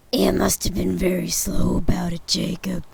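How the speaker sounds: put-on deferential old man whisper; whispered Scrooge. Scrooge whispers humbly to Jacob's ghost.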